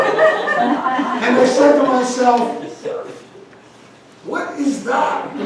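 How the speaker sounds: slow words through loud laughter; laughing while talking. Real, not acted. Telling the car story, laughing loudly. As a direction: talk through the giggles.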